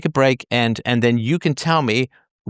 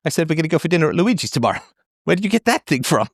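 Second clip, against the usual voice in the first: mock exasperated; 5 semitones higher than usual. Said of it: "It's like".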